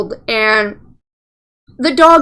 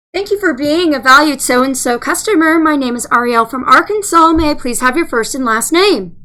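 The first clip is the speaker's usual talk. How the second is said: lightly voiced phone agent script; call center greeting. Shown as a demonstration. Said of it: "let me see if I can still do it".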